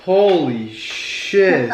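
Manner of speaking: slow, winded laugh; laughing while catching breath; breathless laugh. Real, not acted. Exhausted after stairs.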